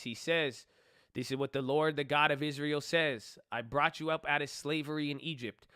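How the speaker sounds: reading Judges aloud to viewers, in a measured reading voice; scripture reading. Acted. Reading the Bible story aloud to viewers in a steady voice.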